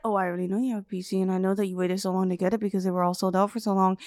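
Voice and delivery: lightly creepy low monotone; creepy know-it-all. Retold or imitated. Spooking a kid about his PC, lightly creepy drone. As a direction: drone it low, as if knowing everything.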